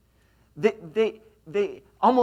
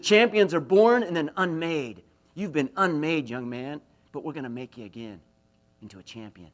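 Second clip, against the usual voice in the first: starts loud and firm, fades to a low hush; a coach pouring conviction into a boy, loud then dying away; forceful coach; 3 semitones lower, 5 dB louder than usual. Retold or imitated. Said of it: "he said it with such force and conviction".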